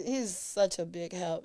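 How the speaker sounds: ordinary talk, nothing marked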